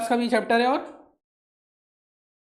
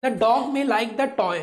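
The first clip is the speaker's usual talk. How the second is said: slow model reading; much slower than usual. Shown as a demonstration. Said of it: "teacher models English sentence slowly".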